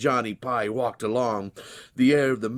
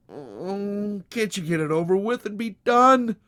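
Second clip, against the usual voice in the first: higher, louder desperate plea; pleading young man; 10 semitones higher, 5 dB louder than usual. Acted. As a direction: beg him to get it over with. Johnny's pleading voice.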